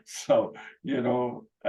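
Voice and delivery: usual speaking voice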